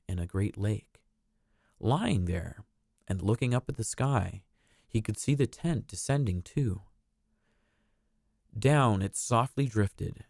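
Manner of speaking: gentle storybook reading voice; storybook narrator. A narrator's reading. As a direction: read it like a bedtime story. Reads a storybook aloud.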